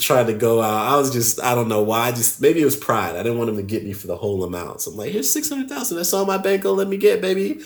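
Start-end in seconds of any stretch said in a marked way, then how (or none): 5.1-7.6 small high-pitched pleading voice; feigned innocent plea. Retold or imitated. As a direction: plead sweetly in a much higher voice. Retold plea to robbers, feigned innocence.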